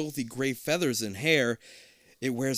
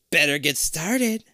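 a touch of cackle, slow and louder; cackling; 5 semitones higher, 6 dB louder, slower than usual. A narrator's reading. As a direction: gloat while slowly saying it.

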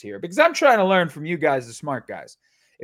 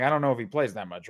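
mock monotone pundit; 4 semitones lower, 4 dB quieter, faster than usual. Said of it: "Monotone should have been like".

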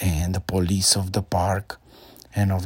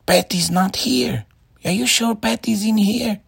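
put-on high, loud childish yelling; boy screaming; 14 semitones higher, 5 dB louder than usual. A narrator's reading. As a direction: shout impatiently into the ditch. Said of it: "he started screaming".

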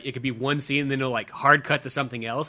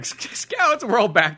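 mock excited players; 8 semitones higher, 4 dB louder than usual. Quoting players' reaction.

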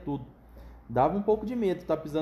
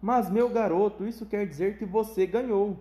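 bursting with enthusiasm; 6 semitones higher than usual. Acted. Wonka telling Charlie he won, thrilled. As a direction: explode with joy at the news. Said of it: "explodiu de entusiasmo".

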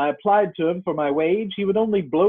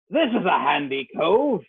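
put-on gruff old sea dog. Captain voiced in story.

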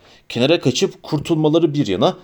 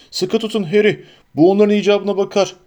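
roaring; 5 semitones higher than usual. A narrator's reading. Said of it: "diye kükredi Hagrid".

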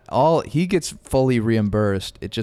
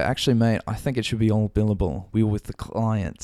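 put-on Australian accent. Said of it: "he was Australian".

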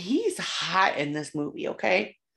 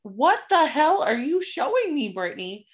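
alarmed question; 7 semitones higher, 3 dB louder than usual. Retold or imitated. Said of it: "And I was like".

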